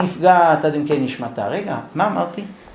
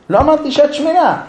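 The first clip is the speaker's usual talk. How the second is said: mock protest; 9 semitones higher, 4 dB louder than usual. Husband protests.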